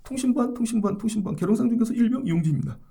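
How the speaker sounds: fast triple radio call sign; drilled soldier rattling it off; korean military style. Retold or imitated. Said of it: "앞으로 통신보안을 세 번씩 해".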